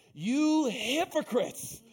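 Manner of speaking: slow, drawn-out rebuke; hypocrites yelled. Retold or imitated. Jesus rebuking the Pharisees, slow loud rebuke. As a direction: call them out slowly and hard. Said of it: "And he yells at them".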